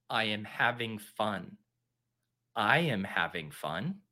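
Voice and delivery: soft, slow, low mantra; hollow self-assurance. Pretend. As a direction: recite it quietly to convince yourself. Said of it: "You're witnessing a mental breakdown".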